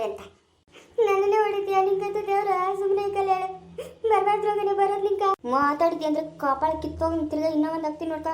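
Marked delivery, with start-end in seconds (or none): 1.0-5.2 tearful cursing, a little higher; crying curse. Acted. Slapped woman crying and cursing the grandmother. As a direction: curse her through tears.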